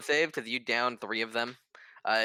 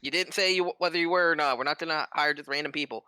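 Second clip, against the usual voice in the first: high, loud doubting challenge; suspicious official pushing back; sceptical lord; 6 semitones higher, 3 dB louder, faster than usual. Acted. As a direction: question the stranger's credentials, pitched up. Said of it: "He goes".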